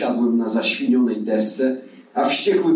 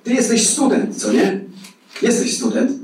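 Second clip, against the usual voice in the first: wyższy, przejęty ton pytania; przejęty rozmówca; 10 semitones higher than usual. A narrator's reading. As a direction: say it keyed-up, pitched well above narration. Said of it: "prawił zaoferowany". (przejętym głosem)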